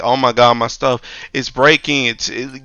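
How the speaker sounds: lightly mocked whine; whiny coworker. Mocking a coworker begging for a new laptop, light whine. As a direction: beg for a laptop. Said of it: "dudes that be like".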